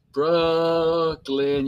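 BROOKLYN drawn out very slowly on a held first syllable; stretched-out Brooklyn. Shown as a demonstration. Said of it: "You gotta stretch it out".

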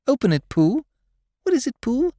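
high, eager chorus of friends; excited. Acted. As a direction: urge excitedly. Friends calling.

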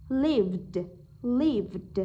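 "lived" ending in a voiced D; final D sound. Shown as a demonstration. Teacher shows students the -ed ending, "lived" with final D. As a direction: release a clear D at the end of "lived". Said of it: "Âm D".

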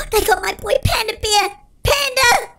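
high wailing over a lost friend; half-laughing despair; mock distraught cry. Real, not acted. Gamer whose friend Panda was caught, mock distraught wail.

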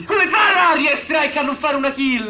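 outraged shout. Real, not acted. Gamer angry at killstreak.

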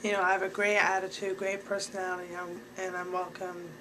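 upbeat, eager intro; cheery mock self-introduction; bubbly greeting. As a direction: sell yourself brightly to the agent. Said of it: "be like".

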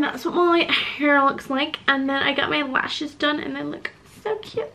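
winded, sighing between words; out of breath. Real, not acted. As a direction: still catching breath after the stairs. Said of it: "I'm so out of breath".

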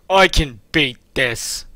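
put-on slow, determined old man voice; old man vowing to keep going; crazy old man voice. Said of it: "with a crazy old man voice".

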